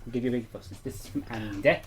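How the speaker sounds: a hint of a common accent on "Andy"; a little bit common. Telling the dog the fuss is from Andy, lightly common accent. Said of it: "I went a little bit common then".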